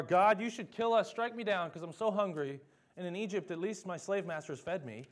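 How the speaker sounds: shrill-free mock outcry, hammed up; mock whining complaint. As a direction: overplay a petulant complainer begging God. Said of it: "how ridiculous is that attitude".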